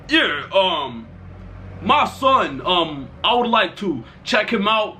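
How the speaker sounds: lightly imitated fake dad, slowed down; a hint of a deep-voiced pretend father; put-on deep voice. Friend posing as his dad to check him out, mock deep voice. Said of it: "he put on a deeper voice".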